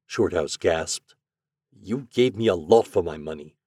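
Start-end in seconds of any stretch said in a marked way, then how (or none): none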